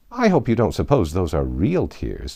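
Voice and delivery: lightly voiced scorn, level and cool; a touch of disdain for her tears; great contempt. Tweedledum mocks Alice's tears with light contempt. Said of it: "tone of great contempt".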